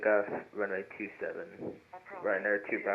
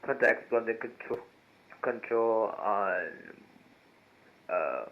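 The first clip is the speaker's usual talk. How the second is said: pilot over the radio; 8 dB quieter, slower than usual. Real, not acted. Pilot reading back on radio.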